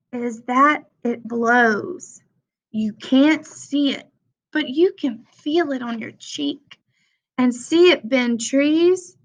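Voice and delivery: picture-book read-aloud voice; reading to children. Acted. Teacher reading The Important Book to her class, storytime read-aloud. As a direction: read it like storytime for little kids, refrains lifted.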